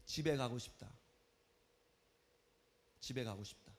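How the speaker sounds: low, deflated homesick sigh of words; quiet, sinking teenage lament; acted stressed-out thought. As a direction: say it softly to yourself, worn down. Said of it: "스트레스가 엄청 올라오죠".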